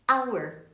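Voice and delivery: "Hour" begun on the vowel, like "our"; silent H. Shown as a demonstration. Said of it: "nós não pronunciamos".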